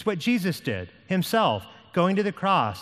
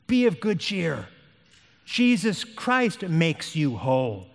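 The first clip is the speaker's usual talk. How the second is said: more connected, emphatic exhortation; firmer repeated encouragement; slower than usual. Acted. Hopeful urging Christian to take heart, firm and emphatic. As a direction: drive the assurance home without lingering.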